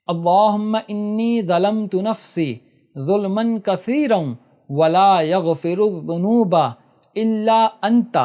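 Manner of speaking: slow, drawn-out recitation of the dua; slow supplication recitation. Shown as a demonstration. Teacher recites the other common dua, slow careful recitation. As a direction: recite it slowly, word by word. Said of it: "اکثر لوگ یہ والی دعائے معصورہ پڑھتے ہیں".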